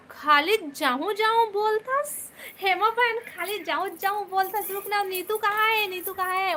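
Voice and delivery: high-pitched, lively protest; playful chiding. Real, not acted. Streamer scolding a viewer who keeps saying she'll go, playfully chiding.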